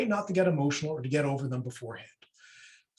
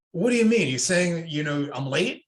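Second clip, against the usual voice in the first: escalating comeback; 3 dB louder than usual. Acted. Role-playing a latecomer answering a colleague, mildly escalating. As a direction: push back as if accused, mildly heated. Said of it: "the other person escalates it".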